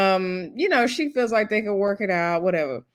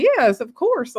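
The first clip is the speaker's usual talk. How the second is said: higher-pitched imitation of an indignant woman; light mock indignation, pitched up; indignant retort; 6 semitones higher, slower than usual. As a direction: retell it as an obvious yes. Voicing Stephanie's indignant reply.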